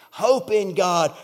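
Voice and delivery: loud, slow command to oneself; talking back to himself. Acted. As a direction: ring it out slowly, rallying your soul. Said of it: "he talks back to himself".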